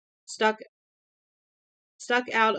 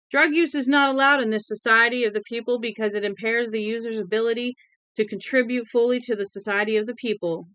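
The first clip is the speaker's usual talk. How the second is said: proclaiming; 3 semitones higher, 5 dB louder, faster than usual. Acted. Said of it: "Winky was proclaiming".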